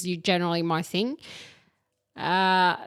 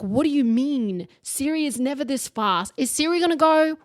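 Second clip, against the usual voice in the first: 1 mock panic; 6 semitones higher than usual. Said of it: "And you're like".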